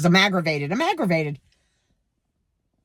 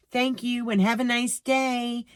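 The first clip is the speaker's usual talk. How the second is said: robot politeness; 4 semitones higher, slower than usual. Retold or imitated. Robot cashier programmed to say.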